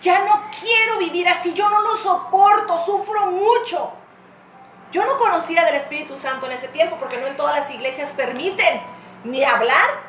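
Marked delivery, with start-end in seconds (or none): 0.0-3.9 loud, high, drawn-out cry to God, re-enacted; tearful plea. Woman recalls praying in her room at night, tearful plea. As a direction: re-enact a desperate, tearful prayer for help. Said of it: "yo llorando le dije".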